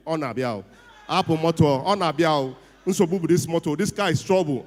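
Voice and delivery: loud mock call of Lagos mechanics; Igbo mechanics calling out. Ladipo mechanics call out loudly as his troubled car arrives. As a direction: shout it like the Ladipo traders spotting him. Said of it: "they will just start speaking Igbo".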